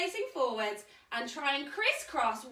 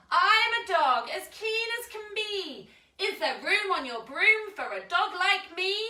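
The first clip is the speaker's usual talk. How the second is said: eager dog voice; 6 semitones higher than usual. Acted. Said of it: "As he says".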